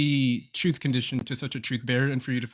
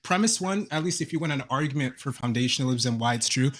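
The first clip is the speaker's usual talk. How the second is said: reading out a syllogism. Real, not acted. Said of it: "all you did was read out a syllogism".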